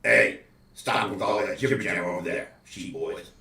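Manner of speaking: put-on the farmer telling the sheep boys to hush; farmer yelling. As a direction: yell it across the field at the sheep. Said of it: "he looks over and says".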